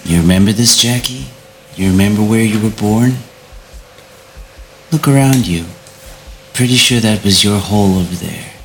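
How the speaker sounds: lightly voiced taunting vampire; a hint of a mocking villain. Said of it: "he says to you".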